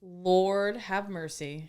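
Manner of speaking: slow, low, weary lord have mercy; a slow, long-suffering sigh of disbelief at the friend's crude jokes; exasperated. Real, not acted. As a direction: drag it out, shaking your head. Reacts to crude joking.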